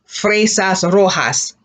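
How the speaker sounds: fresas rojas slow, rojas with an h sound; slow model word. Shown as a demonstration. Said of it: "'Cause the as, as".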